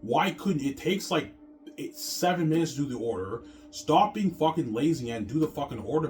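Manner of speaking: retold telling-off. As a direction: scold him for dumping the order on you. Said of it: "I'm like".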